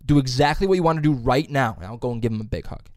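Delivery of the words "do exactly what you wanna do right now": teacher's instruction repeated. Retold or imitated. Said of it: "He'll go".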